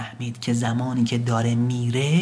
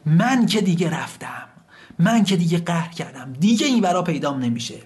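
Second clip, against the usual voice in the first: lightly acted huff, raised pitch; mild sulky outburst; 6 semitones higher than usual. Son tells father he is leaving for good, mildly sulky. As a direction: play a child announcing they're leaving.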